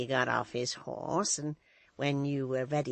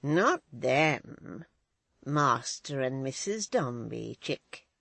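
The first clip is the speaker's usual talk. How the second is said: coaxing; 5 dB louder, much slower than usual. Acted. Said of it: "replied the old woman coaxingly".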